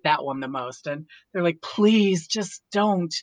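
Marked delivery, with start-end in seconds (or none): 1.6-3.1 drawn-out mock plea, slightly higher; slow, exasperated imitation of her children; imitated pleading kids. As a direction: imitate a fed-up kid begging, dragging each word.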